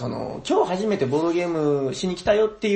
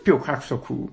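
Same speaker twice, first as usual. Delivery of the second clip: announcer-style delivery. Pretend. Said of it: "この喋り方合ってます？".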